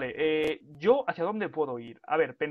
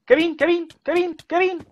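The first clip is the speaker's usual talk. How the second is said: urgent calls, much higher and louder; calling out loud; 12 semitones higher, 9 dB louder than usual. Real, not acted. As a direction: yell the name to get his attention. Calling teammate in a fight.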